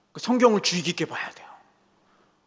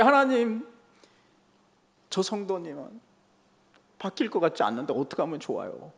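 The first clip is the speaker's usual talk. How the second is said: retold crying prayer; 5 dB quieter than usual. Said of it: "내가 또 부르짖어요".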